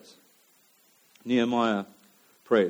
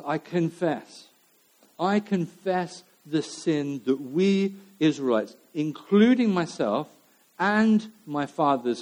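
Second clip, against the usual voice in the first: slow, sorrowful confession; confessional reading. Acted. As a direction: confess it slowly and humbly.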